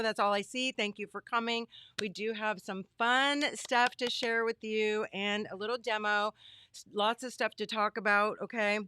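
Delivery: slightly hoarse, losing her voice; strained voice, losing her voice. Real, not acted. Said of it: "Kinda losing my voice".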